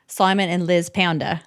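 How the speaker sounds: lightly done Australian accent phrase. Shown as a demonstration. Showing a phrase that gets into the accent, Australian accent. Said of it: "Like, for Australian".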